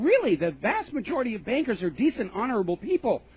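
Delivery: a hammed-up smug banker; mocking banker. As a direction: parody the banker's self-praise. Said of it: "who's basically going on and saying".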